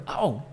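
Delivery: short falling "au", as if hurt; a soft demonstration ouch; pained "ow". Shown as a demonstration. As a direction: yelp a small "au". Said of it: "Sabe quando tá com dor?".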